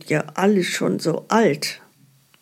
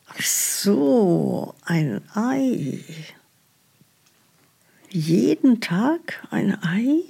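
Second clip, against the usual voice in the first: staunendes Flüstern; 3 semitones higher, slower than usual. Acted. Staunende Rückfrage im Sketch.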